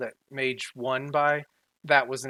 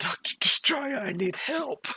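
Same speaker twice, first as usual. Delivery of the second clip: whispered at very high pitch; 12 semitones higher than usual. In the middle of combat, a character calls for help into his wrist communicator, whispering. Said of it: "he whispers into his communicator".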